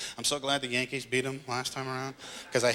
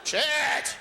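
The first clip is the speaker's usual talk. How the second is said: very high, drawn-out swear; exasperated yell; 12 semitones higher, 4 dB louder than usual. Acted. Driver still stuck at the red light, exploding in frustration. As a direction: blow up on one stretched word.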